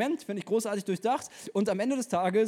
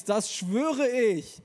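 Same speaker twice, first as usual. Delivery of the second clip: 1 slow sworn threat; 3 semitones higher, 4 dB louder, much slower than usual. Acted. End of Isabel's threat.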